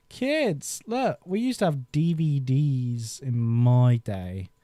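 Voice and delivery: lightly voiced grumpy old man, slow; a hint of a cranky grandad telling kids about the old days; mock old-timer. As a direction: play a slow old geezer lecturing kids.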